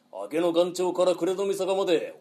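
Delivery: rolling highwayman's declamation; bandit's challenge. Shown as a demonstration. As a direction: declaim the robber's boast. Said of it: "覚えろ".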